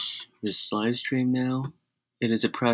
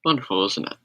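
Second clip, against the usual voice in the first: sarcastic. Real, not acted. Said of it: "Sarcastically, yes".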